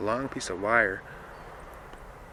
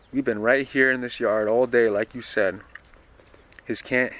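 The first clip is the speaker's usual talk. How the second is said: a louder, lightly voiced boy protesting; defensive Lester; 3 semitones higher, 7 dB louder than usual. Reads Lester answering Dilsey.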